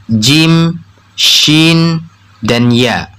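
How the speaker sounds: jim, shin and ya held out separately; name jim, shin, ya distinctly from the middle of the tongue; mid-tongue letters. Shown as a demonstration. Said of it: "Di sini keluar tiga huruf".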